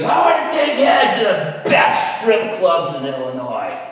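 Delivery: imitating a drunk man's rowdy holler; drunken holler. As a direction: bellow like a plastered heckler. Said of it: "hollering out, his speech was slurred".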